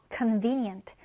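convenient with the second syllable ve pressed; stress on second syllable. Shown as a demonstration. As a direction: lean on the middle of convenient. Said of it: "두 번째 음절에 강세를 두고요". (두 번째 음절에 강세)

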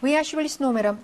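slow, careful Russian, each word spelled out; slow Russian example sentence for students; slow model reading. Shown as a demonstration. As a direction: read it slowly for learners, stress on Вы. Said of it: "번호를 족격으로".

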